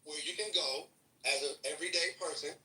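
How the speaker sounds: slow, deliberate, word by word; patronisingly slow explanation; said slowly. Shown as a demonstration. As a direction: spell it out slowly for someone who isn't getting it. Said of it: "I'll say it slow this time".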